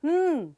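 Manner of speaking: long hummed "ਹਮ" as a pure nnn; sustained "ਹਮ" hum; N sound. Shown as a demonstration. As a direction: hold "ਹਮ" as an N with no vowel. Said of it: "the sound is".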